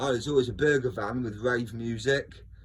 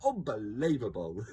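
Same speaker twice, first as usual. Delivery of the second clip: Victor Meldrew; 3 semitones higher than usual. Retold or imitated. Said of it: "as Victor Meldrew would say".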